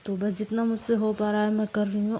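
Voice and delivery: ordinary delivery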